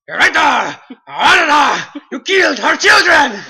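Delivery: high, loud anguished yell; shouting. Retold or imitated. Oberyn screaming at the Mountain in the duel. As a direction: scream the accusation at the killer. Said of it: "he goes like".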